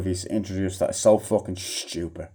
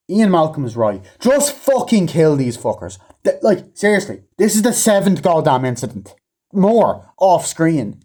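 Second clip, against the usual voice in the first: exasperated; 8 semitones higher, 4 dB louder than usual. Real, not acted. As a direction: drag it out, sick of it all. Exasperated rant about the dinosaurs.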